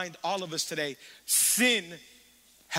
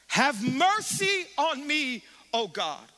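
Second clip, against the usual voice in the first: slow, high pleading cry; slow, high anguished plea; pleading prayer; 5 semitones higher, slower than usual. Retold or imitated. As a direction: beg God for mercy. Reading psalm as David.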